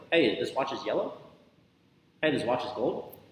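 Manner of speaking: rising on "yellow" and on "gold"; questioning intonation. Shown as a demonstration. Coach showing statements as questions, questioning intonation. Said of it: "Because of that tonality".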